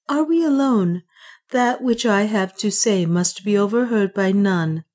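a queen checking for listeners; Juana. Acted. Juana to Ulfan, urgent and secretive.

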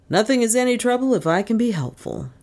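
mild smiling reassurance; lightly voiced, smooth and obliging; doctor assuring the old lady, a touch smiling; smilingly. A narrator's reading. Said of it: "he assured her smilingly".

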